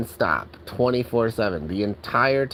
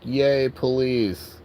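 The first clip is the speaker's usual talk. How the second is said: mock cheering commenters; 2 semitones higher than usual. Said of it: "every single person in the comments is like".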